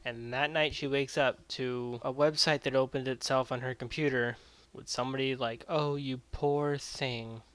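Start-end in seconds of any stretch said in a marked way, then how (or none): 5.7-7.4 mock sympathy. Retold voice offering sympathy.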